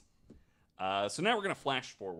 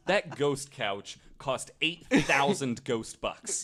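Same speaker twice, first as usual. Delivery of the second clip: slow, laughing and louder; 6 semitones higher, 9 dB louder, slower than usual. Real, not acted. Laughing while joking to friends about ghost furniture. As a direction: laugh through the joke about the couch.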